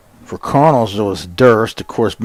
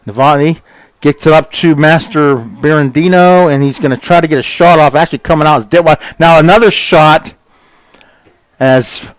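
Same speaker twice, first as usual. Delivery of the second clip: quicker and higher, rising into a shout at the shot; excited call; 4 semitones higher, 4 dB louder than usual. Real, not acted. Commentator calling a shot on goal to listeners, excited and fast. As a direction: get swept up as the shot comes.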